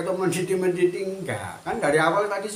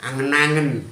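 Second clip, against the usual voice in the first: mocking critics; 5 dB louder, slower than usual. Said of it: "kan ada orang bilangnya gitu".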